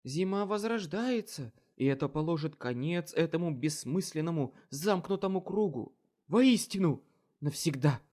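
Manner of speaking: loud, high, exalted declaring; fanatical proclamation. Acted. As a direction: proclaim it like a zealot. Mad queen proclaims to wizard.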